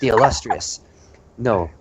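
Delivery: raspy radio-personality impersonation; Phil Thomas Cat. Acted. Host introduces himself as the radio personality, raspy impersonation. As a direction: announce yourself in a husky put-on rasp. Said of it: "you are too good at impersonating his voice".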